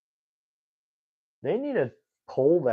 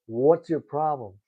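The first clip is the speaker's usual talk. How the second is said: What's your problem punched louder; a mild mock confrontation, raised; louder retold demand; 3 semitones higher, 6 dB louder than usual. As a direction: repeat it harder, confronting him. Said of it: "The guy's like".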